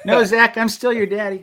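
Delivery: laughing, high and loud; playful laughing protest. Real, not acted. Mock claim, joking to son.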